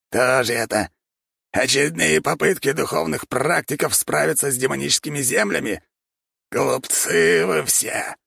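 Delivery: high squeaky sneer; rat lord voice. A narrator's reading. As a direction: squeak it with contempt.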